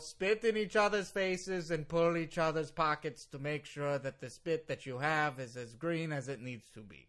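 put-on heavily Russian-accented correction. Lawyer corrects host with garbled saying, Russian accent. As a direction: muddle through the idiom in heavy Russian English. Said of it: "You sound very Russian right now".

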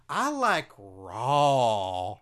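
each word stretched slowly; slow drawn-out. Acted. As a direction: savour every word slowly. Drawn-out declaration.

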